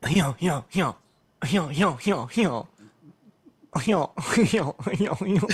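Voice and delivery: playful mock bayou cop voice; loud, hammed-up Cajun drawl; Cajun accent. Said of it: "Let me just get into character".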